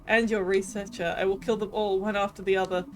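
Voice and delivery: cruel villain threatening to kill all; cold promise of slaughter, savoring it; gloating king. Acted. King threatening Siffrin's friends, cruel and gloating.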